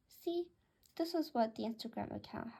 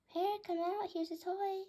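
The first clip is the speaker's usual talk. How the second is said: high, coaxing pet-owner voice; lightly soothing, pitched up; 7 semitones higher than usual. A narrator's reading. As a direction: coax a shy pet out in a high voice. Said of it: "she said in a soothing voice".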